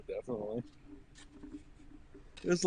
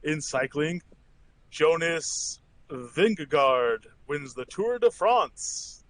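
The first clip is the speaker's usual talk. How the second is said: news read; slower than usual. Acted. Reads the daily news.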